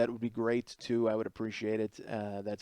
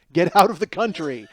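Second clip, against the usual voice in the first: stern order; 6 dB louder than usual. Retold or imitated. Cops ordering friend to leave.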